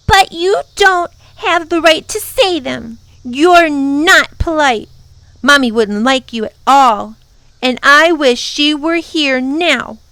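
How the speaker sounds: put-on high, loud childish protest; upset little girl. A narrator's reading. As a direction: protest like a child close to tears. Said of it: "she began to cry".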